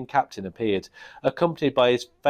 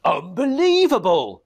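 raised, higher goblin outburst; goblin king scream; 7 semitones higher, 4 dB louder than usual. Acted. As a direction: blurt it out in disbelief. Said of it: "screamed the Goblin King".

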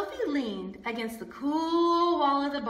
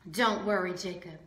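comforting; 5 semitones lower than usual. Acted. Sophie comforts baby.

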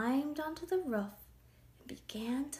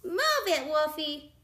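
loud, higher, bossy pig; rude pig ordering; 6 semitones higher, 6 dB louder than usual. A narrator's reading. Pig sends the sorry wolf away, bossy. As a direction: shoo him off loudly.

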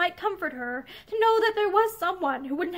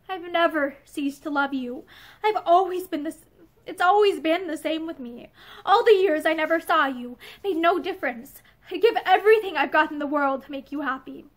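quiet steady voice. Acted. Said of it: "in the quiet, steady voice of a man who knows his own heart".

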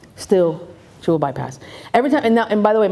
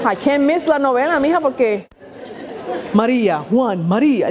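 mom on novelas; 3 semitones higher than usual. Retold or imitated. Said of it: "I got the novelas".

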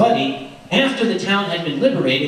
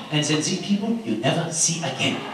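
put-on light French-accented retelling. Teller voicing Josie's wartime story in light French accent. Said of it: "that accent I love so much".

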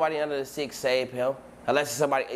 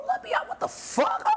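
whispered shock. Retold or imitated. Waking up to the singing.

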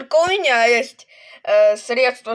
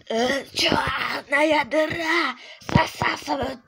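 eerie whisper; 3 semitones higher, slower than usual. Acted. Ominous pronouncement.

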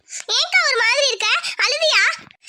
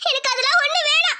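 choked, tearful reply; crying; 4 semitones higher than usual. Acted. Insulted girl answers her rival through tears. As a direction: fight back tears and give in.

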